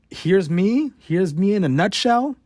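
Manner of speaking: chirpy like a YouTuber presenting herself; perky video intro. Pretend. Nervous student imagines a video introducing herself, perky rising. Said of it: "a quick YouTube type of introduction".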